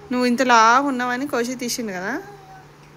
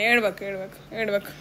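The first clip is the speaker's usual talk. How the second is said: soothing; 3 semitones lower, 5 dB quieter than usual. Real, not acted. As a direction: hush her gently, getting softer. Mother calms crying daughter. (ఏడుస్తున్న పాపను మృదువుగా ఓదార్చడం)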